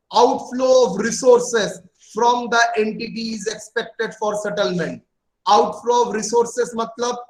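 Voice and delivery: each word spelled out slowly for notes; slow dictation. Acted. Teacher dictating a definition to students, slow and even.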